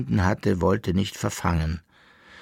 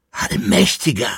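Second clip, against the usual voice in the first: high, louder shocked exclamation; crying out; 9 semitones higher, 5 dB louder than usual. A narrator's reading. Koppelbär hears the summons, crying out in shock. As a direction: cry out to heaven in shock. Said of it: "schrie der Koppelbär auf".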